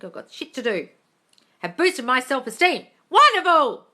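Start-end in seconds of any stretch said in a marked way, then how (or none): 3.1-3.8 high, loud, sing-song gushing; gushing posh voice. Pretend. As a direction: coo like a posh hostess. Gushing over a viewer's comment.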